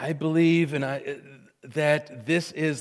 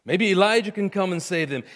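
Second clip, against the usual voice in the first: higher-pitched jeering onlooker; mocking; 4 semitones higher, 3 dB louder than usual. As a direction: throw it out as a scornful taunt. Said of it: "they mocked".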